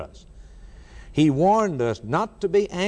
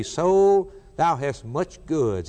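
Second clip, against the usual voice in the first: self-satisfied rich man; slower than usual. Acted. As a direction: gloat over possessions. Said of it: "as I listen to this man say".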